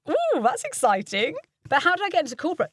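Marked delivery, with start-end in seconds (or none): 0.1-1.3 slow, gushing fake excitement; the wrong way to read trade copy; overly excited read. Shown as a demonstration. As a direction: oversell it like a breathless ad, slowly. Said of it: "don't make words for the trade sound like".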